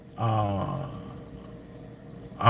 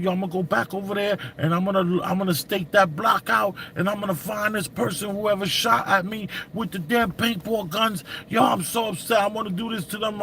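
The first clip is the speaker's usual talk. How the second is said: fast, higher, worked-up ranting; retold angry rant; 5 semitones higher than usual. To his girlfriend about the paintball shooter, a fast, heated retold rant. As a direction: rattle off the revenge plan in a heated rush. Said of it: "she saw how angry I was".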